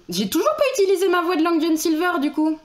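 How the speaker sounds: a hint of a gruff pirate; Long John Silver voice. Streamer trying the Long John Silver pirate voice. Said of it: "il parle comme ça".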